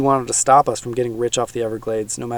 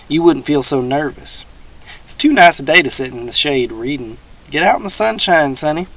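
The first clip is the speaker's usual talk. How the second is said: a hint of a folksy old swamp dweller; teasing old man, lightly voiced; 3 semitones higher, 6 dB louder than usual.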